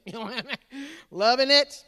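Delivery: laughing, loud delight. Real, not acted. Dad delighted with his own joke. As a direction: chuckle with glee.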